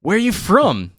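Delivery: a hint of a Jamaican accent; Jamaican movie quote. Quoting Half Baked, light Jamaican accent. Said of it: "Dave Chappelle and, uh, Half Baked".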